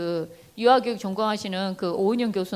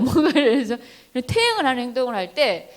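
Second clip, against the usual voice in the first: usual speaking voice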